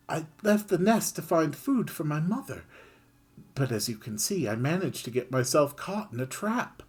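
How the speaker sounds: high, pleading little voice; pleading mouse. Acted. Mouse begging Kid to free it, high and pleading. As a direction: beg sweetly for freedom.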